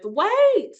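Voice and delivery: high-pitched mock panic, rising to a wail; a lightly hammed-up overwhelmed cry. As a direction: voice the moment your world falls apart. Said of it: "I was just so overwhelmed with".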